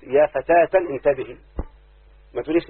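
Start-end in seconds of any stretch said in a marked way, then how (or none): 0.0-1.4 slow, careful call; slow example. Shown as a demonstration. Teacher modelling a vocative for the class, slow and clear. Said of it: "لو قلت".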